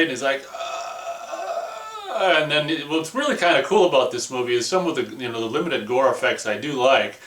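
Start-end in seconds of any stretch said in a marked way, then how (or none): 0.0-2.4 very high, slow strangled wail; a drawn-out, pained dying moan; mock dying wail. Spaceman dying inside suit.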